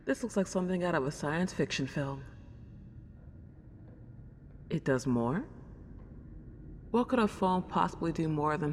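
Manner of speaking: a lonely house ghost, delighted to have company; Celine, old-fashioned ghost. Acted. Celine greets the new owner of her house, soft and old-fashioned.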